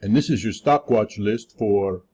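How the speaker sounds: a hammed-up, badly faked Russian accent. Stock show host opening in a bad Russian accent. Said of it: "That was a bad Russian accent".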